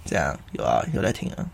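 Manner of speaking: very soft, breathy, muffled as through a mask. Retold or imitated. Mocking a friend speaking through a mask, muffled. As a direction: mumble like your mouth is covered. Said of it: "因为你戴口罩".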